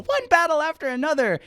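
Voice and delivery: put-on very high squealing kid voice; excited kid. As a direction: squeal it like an eager child. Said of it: "the kids go".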